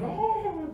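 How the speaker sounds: mock scream. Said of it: "Dia teriak".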